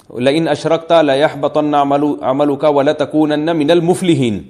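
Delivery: slow recitation ending wrongly with المفلحین; mistaken recitation. Shown as a demonstration. Teacher showing a reciter's grave mistake, slow recitation with المفلحین. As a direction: recite the verse but end on المفلحین instead of الخاسرین. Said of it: "خاسرین کو مفلحین پڑھ لیا".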